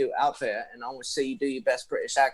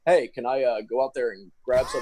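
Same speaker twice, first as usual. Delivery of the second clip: put-on normal American accent. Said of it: "you just sounded normal for a second".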